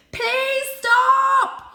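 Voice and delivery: loud, high pleading shout; desperate shout. Acted. Cat pleads with the cars to stop, shouting high. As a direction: beg them to stop at full voice. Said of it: "he shouted".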